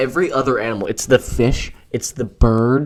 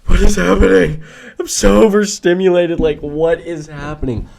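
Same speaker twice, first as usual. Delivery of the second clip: high, overwhelmed mock wail; mock crying; 6 semitones higher, 4 dB louder than usual. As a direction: play it up as overstimulated and tearful. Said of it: "like, crying".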